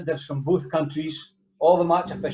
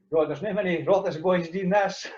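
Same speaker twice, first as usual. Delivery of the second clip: laughing through it; 3 semitones higher than usual. Retold or imitated. Recalling his thought during anthems.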